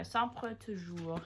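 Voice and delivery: slow, drawn-out Italian accent; Italian accent attempt. Shown as a demonstration. Trying sempre toujours in an Italian accent, slow. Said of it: "how would I say it in an Italian accent?".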